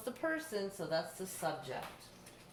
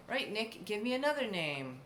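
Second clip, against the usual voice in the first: playing mom; 3 semitones higher than usual. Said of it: "So if I were your mom".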